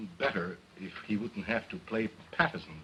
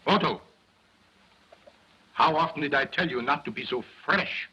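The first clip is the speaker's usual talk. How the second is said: scolding dummy; 4 semitones higher, 4 dB louder than usual. Acted.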